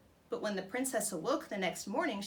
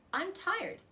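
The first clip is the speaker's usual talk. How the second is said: croaking frog; 2 semitones higher than usual. Acted. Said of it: "he croaked".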